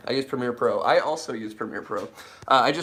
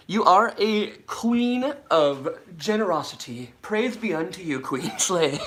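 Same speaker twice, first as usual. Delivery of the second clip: mock royal praise; 6 semitones higher, slower than usual. Grand mock praise for donor.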